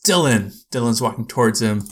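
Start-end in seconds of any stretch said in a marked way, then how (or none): 0.1-0.5 mild mock yell, pitched up; imitated yell. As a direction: call out the name in imitation. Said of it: "and yells out".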